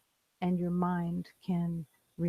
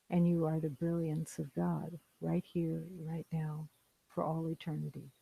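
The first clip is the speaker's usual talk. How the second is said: gentle closing blessing; 5 dB quieter than usual. Real, not acted. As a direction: let it settle quietly into rest. Closing blessing, softly spoken.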